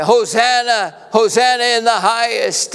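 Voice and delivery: high ringing crowd chant of praise; crowd cheering. Retold or imitated. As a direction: lift it like a hopeful crowd hailing its king. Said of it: "remember that crowd just the week before".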